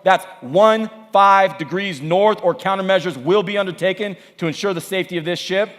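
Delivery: lightly acted officer pulling rank on the radio; a hint of military authority, slowing on the key order; American navy captain. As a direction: build from measured announcement to firm demand. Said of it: "The American comes back on".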